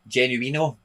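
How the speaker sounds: Genuino said in an Italian accent; Genuino, lilted as an Italian would. Shown as a demonstration. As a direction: put on an Italian accent for the name. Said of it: "If I say it with an Italian accent".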